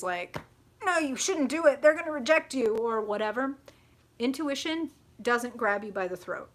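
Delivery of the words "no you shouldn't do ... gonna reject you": high, loud, urgent warning; loud fearful inner voice. Acted. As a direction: blurt it like fear shouting in your head. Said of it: "if that voice is loud".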